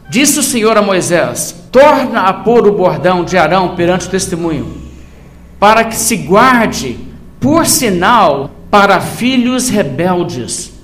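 slow, deliberate Bible reading with weighted phrases; scripture reading. Acted. Preacher reads God's command to Moses to the congregation, measured scripture reading. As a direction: read the verse out solemnly, pausing between phrases.

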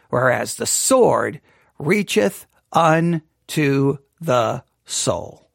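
slow, solemn reading aloud; scripture reading. Shown as a demonstration. Teacher reading Jeremiah's lament to the class, slow and solemn. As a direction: read the verse slowly and gravely. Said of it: "I want you to read Jeremiah four ten".

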